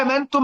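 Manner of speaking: "آمنتم" with an overlong opening aa; madd upon madd. Shown as a demonstration. Teacher showing why it doesn't work, vowel doubly lengthened. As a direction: stretch the first vowel of "آمنتم" far too long. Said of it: "هتدخل مد على مد".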